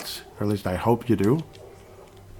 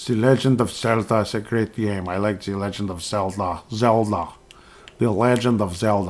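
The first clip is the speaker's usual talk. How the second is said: Zelda said as a light, mock Russian "Zeltah"; a half-hearted Russian accent, just for the joke. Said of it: "I did the wrong accent".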